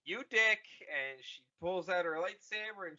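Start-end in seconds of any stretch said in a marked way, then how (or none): 0.0-0.6 mock angry Rey. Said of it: "she's like".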